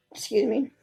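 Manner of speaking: belchy, uncomfortable reading; with heartburn. Real, not acted. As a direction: read through the burps. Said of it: "Excuse me for belching on here".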